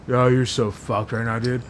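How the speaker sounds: slow gloating taunt. Retold or imitated. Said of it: "he's like".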